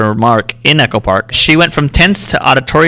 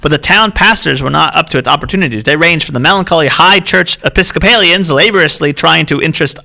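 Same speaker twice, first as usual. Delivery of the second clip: put-on lightly raised old-time reading voice; old-timey voice. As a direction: read it like an old newsreel, lightly. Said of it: "should I read an old-timey voice?".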